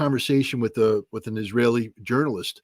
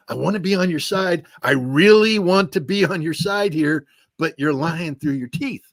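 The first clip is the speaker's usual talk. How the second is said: higher-pitched, insistent pleading, leaning on "really"; earnest plea; 5 semitones higher, 4 dB louder than usual. Retold or imitated. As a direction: plead to be allowed on their side. Retells his plea to the Israelis.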